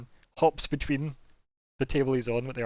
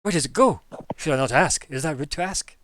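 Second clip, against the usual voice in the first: curious gnome; 6 dB louder than usual. Acted. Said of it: "and then he's like".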